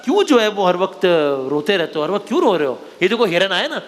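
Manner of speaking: put-on storytelling to kids. Host telling children a crocodile story, storyteller's read. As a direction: tell it like a bedtime tale.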